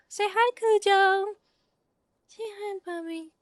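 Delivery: sweet high doggy-talk; pet talk. Real, not acted. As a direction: coax your puppy in a high sing-song. Coaxing dog to greet viewers.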